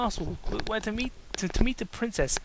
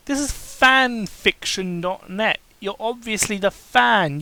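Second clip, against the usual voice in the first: louder, slow exasperated explaining; ranting at fanfic writers, exasperated; 3 semitones higher, 6 dB louder, slower than usual. Real, not acted. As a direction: spell out the obvious, fed up.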